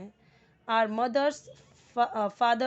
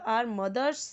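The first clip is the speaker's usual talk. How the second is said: slow dictation; 4 dB louder, much slower than usual. Shown as a demonstration. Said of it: "teacher reads example sentence".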